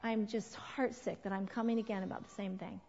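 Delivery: tender apology. Shown as a demonstration. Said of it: "next time you have to go, say".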